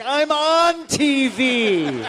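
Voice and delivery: very slow, high and loud, laughing; laughing retort. Retold or imitated. Answering Atlas's insult, slow laughing disbelief. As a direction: drag it out in disbelief.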